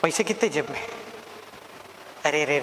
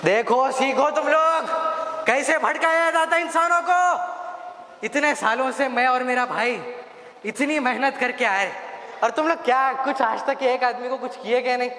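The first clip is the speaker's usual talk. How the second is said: boasting devil boss; 5 semitones higher than usual. Acted. Devil boss scolding minions for doing nothing, boastful and high. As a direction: lord it over the lazy minions.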